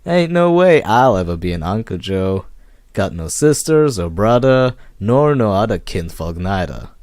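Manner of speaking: loud mock Fat Man voice, barman doing it; hammed-up retelling of a tough guy's words; imitating the Fat Man. Joe quoting the Fat Man to the detective, loud mock voice. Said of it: "He gave me this look and says".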